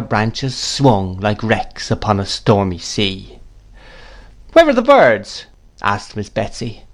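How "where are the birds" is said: high-pitched, louder pointed question; brusque demand. A narrator's reading. Miss Betsy interrogating the mother, demanding.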